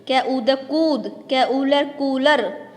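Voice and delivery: कूद and कूलर with the ऊ held long, slow spelling; drawn-out long vowel. Shown as a demonstration. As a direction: stretch every ऊ in कूद and कूलर. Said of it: "तो इसको भी खींच के बोलेंगे". (कूद और कूलर में ऊ खींचकर धीरे बोलना)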